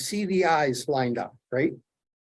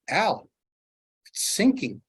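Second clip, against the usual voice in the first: excited whisper; 5 semitones higher, slower than usual. Retold or imitated. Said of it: "talking so fast and excited whispers".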